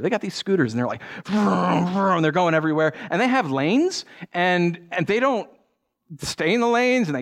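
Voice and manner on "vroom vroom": rolled vroom engine noise; imitated scooter engine. Pastor mimicking scooters buzzing everywhere in Vietnam, imitated engine revs. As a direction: make revving scooter noises.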